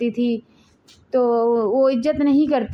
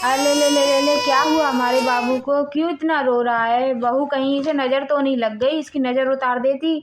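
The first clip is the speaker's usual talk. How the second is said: put-on cooing to a baby. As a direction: soothe the little one with sing-song coos. Grandmother cooing to crying baby. (रोते बच्चे को दादी का हल्का लाड़ भरा दुलार)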